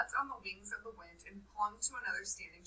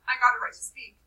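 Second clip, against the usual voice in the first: raised indignant voice; Piggy insisting; 3 semitones higher, 8 dB louder than usual. Acted. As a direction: demand the right to speak. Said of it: "said Piggy".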